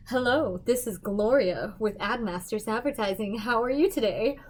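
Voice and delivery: lightly polished receptionist voice on the phone; a hint of a sweet office greeting; phone persona Gloria. Answering client calls as Gloria, lightly put-on. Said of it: "pretend to be a girl named Gloria".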